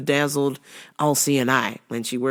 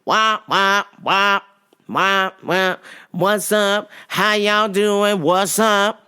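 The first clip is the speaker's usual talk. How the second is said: imitating the lady; 4 semitones higher, much slower than usual. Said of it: "she's like".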